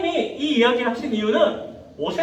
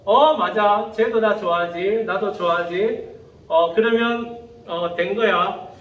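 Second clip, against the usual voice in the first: passive admirer; 4 semitones lower than usual. Acted. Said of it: "이렇게 되는 거예요".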